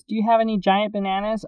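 lightly voiced customer asking; earnest question. Reviewer asking the Walmart clerk, mildly voiced. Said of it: "I questioned".

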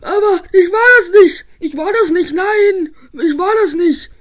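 whiny protest with a hint of sobbing; tearful denial. Spike caught cheating, denying it with a whiny cry. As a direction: deny it while close to tears.

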